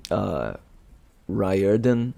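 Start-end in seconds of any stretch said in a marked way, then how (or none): 1.3-2.1 Riordan said as RYE-er-dan; pronouncing Riordan. Shown as a demonstration. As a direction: sound out Riordan as RYE-er-dun. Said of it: "it's how you say".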